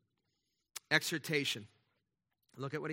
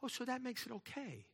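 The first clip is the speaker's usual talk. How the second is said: sarcastic retort; 8 semitones higher, 7 dB quieter than usual. Retold or imitated.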